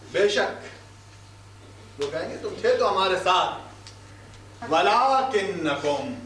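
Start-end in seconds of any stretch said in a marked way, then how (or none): 0.1-2.0 breathy whisper, slowly; whispered reply. Acted. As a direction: whisper the answer as if confessing. Voicing the sinners' reply.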